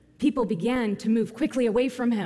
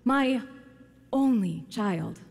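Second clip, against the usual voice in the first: raised, high, desperate plea for his son; pleading cry to the teacher; 3 semitones higher, slower than usual. Acted. Father begs Jesus to heal his only son, pleading. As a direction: beg like a father at the end of his rope. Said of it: "he cries out and says".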